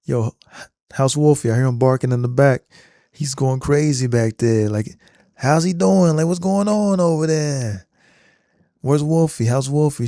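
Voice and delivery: lightly voiced casual teen on the phone; a hint of a friendly kid checking in; John Connor's voice. Terminator mimicking John to his foster mom, casual. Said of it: "So he says".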